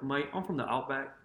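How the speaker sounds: put-on soft, half-hearted Australian accent; bad Australian accent. Host mimicking the Australian player as a joke, poor Australian accent. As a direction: attempt an Australian accent and barely land it. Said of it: "that was your Australian accent?".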